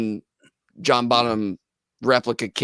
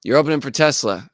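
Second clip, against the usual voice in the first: louder, urgent wake-up call; mock parents' shout; 5 dB louder, faster than usual. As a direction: bark it out to rouse a sleeping son. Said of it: "They're like".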